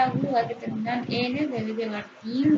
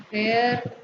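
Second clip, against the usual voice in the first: fer- sounded alone with firm weight; stressed syllable alone. Shown as a demonstration. Teacher pointing out the strong syllable, fer- said with emphasis. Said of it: "se pronuncia con mayor intensidad".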